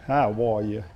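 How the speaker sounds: "Hawaii" with an R sound, like "how-wor-you"; Pastor Jim's pronunciation. Retold or imitated. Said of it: "Or as Pastor Jim says".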